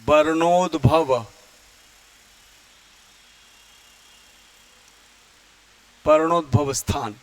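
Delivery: "वर्णोद्भव" said slowly, syllable by syllable, stressed; teacher dictating a new term; careful term. Shown as a demonstration. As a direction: pronounce "वर्णोद्भव स्थान" slowly and clearly for students. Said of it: "इसको हम कहेंगे".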